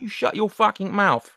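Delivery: put-on high, menacing Essex accent; chavvy Essex accent. Answering the dare with a rough Essex accent. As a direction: snarl it like a London lout. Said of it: "chavvy Essex type".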